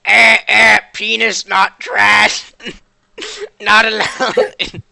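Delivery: robot voice. Acted. Omega the robot car speaks.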